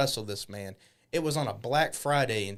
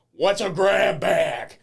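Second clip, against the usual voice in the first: put-on kid asking; 5 semitones higher, 8 dB louder, much slower than usual. Retold asking at fair.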